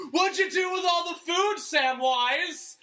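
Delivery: high, loud accusing shout; Smeagol accusation. Retold or imitated. Sessions waking to accuse Trump, Gollum shout. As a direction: yell it like a betrayed Gollum. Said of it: "sound like Smeagol".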